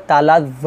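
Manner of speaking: "তালা জ" with a long final vowel; one-alif stretch. Shown as a demonstration. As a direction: hold "জ" open for one alif. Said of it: "জর মধ্যে এক আলিফ টান দিব".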